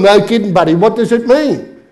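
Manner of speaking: mock exasperation; exasperated Aussie. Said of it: "He's going".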